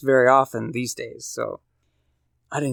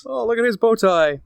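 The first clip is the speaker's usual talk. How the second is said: mock sportscaster; 10 semitones higher than usual.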